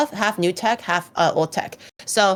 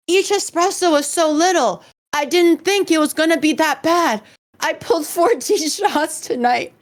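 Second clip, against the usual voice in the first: higher, slow laughing plea; whiny mock panic; 8 semitones higher than usual. Friend explaining his fourteen shots, laughing whine. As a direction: whimper it through laughter. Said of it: "he was like".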